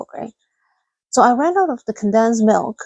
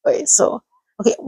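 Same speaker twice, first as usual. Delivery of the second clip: whisper; faster than usual. Real, not acted. Whispered aside.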